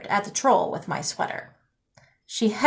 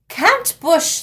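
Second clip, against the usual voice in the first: troll cry; 6 semitones higher than usual. Acted. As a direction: whine it like a stubborn troll. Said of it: "they cried".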